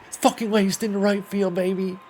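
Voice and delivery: loud, high celebratory yell; excited shout. Real, not acted. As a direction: erupt in triumph at the hit. Pinch hitter rips a double.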